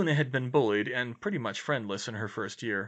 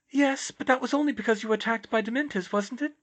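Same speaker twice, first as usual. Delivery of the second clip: put-on very high, airy, dreamy girl; serene dreamy voice; 12 semitones higher, 4 dB louder, faster than usual. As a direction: float it, serene and otherworldly. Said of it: "usual serene voice".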